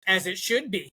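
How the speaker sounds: flat, deadpan monotone; no inflection, bored deadpan. Retold or imitated. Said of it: "in the most monotone voice ever".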